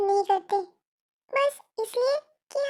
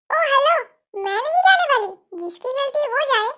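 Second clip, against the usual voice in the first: sassy refusal; 4 dB louder than usual. Acted. Sister refuses to go.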